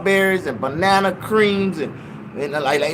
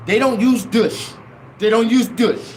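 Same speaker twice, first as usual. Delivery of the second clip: African church lady's phrasing; 3 semitones higher than usual. Retold or imitated. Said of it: "that's the way they say it".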